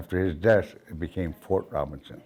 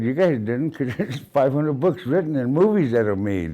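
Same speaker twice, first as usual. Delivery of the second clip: higher, louder retort; emphatic retold challenge; 7 semitones higher, 5 dB louder than usual. Grandson retelling his challenge to critics, emphatic and raised. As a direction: throw it back at the critics, voice raised.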